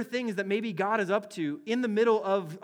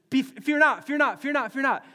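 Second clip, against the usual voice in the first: higher, louder "fear not" called out again and again; urgent angel; 5 semitones higher, 4 dB louder than usual. Retold or imitated. Pastor voices the angel calming a terrified person, higher and louder. Angel's first words in Bible.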